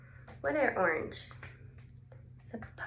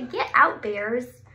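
mock shout; 4 dB louder than usual.

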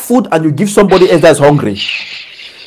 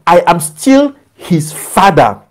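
voice of God; 3 semitones lower than usual. Acted. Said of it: "Tell my son".

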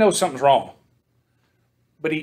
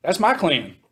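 nervous realization; 3 semitones higher, slower than usual. Retold or imitated. Achan hears his clan called, a high worried ooh. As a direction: yelp the "ooh" high, then sink. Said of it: "And he goes".

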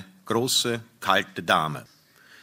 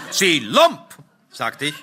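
higher, louder indignant outburst; angry threat; 5 semitones higher, 3 dB louder than usual. Acted. Husband insulting the stranger, angry raised outburst. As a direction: burst out at the rival.

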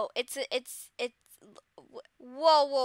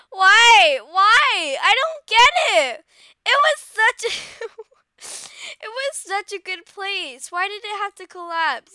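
mock wailing; 7 semitones higher, 13 dB louder than usual. Hammed-up grief over club.

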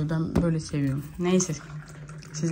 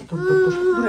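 quick stop; 11 semitones higher than usual. Real, not acted. Stopping baby grabbing.

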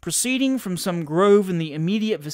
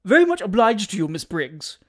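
sharp retort; 3 semitones higher, 6 dB louder than usual. A narrator's reading. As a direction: retort sharply with icy courtesy. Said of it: "sharply retorted Missus Taunton".

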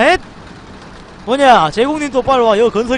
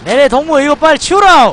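put-on North Korean accent; 5 semitones higher, 6 dB louder than usual. North Korean officer roleplay order.

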